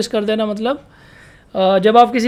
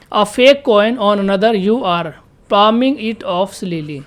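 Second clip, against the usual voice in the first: slow dictation; much slower than usual. Shown as a demonstration. Teacher reading the word's example sentence, very slow dictation. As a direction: read it out very slowly, each word separate.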